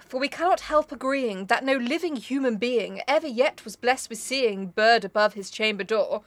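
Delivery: even, measured verse slowing at the end; restrained rhythmic declamation; poem recitation. Acted. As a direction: read it out as solemn poetry.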